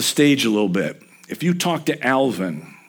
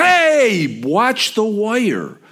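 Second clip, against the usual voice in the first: sudden high, loud "hey", then a slow "watch the wire"; warning shout; 10 semitones higher, 4 dB louder, much slower than usual. Retold or imitated. To Ken reaching for live wire on the job, a sharp warning shout. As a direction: yell a quick warning across the job site.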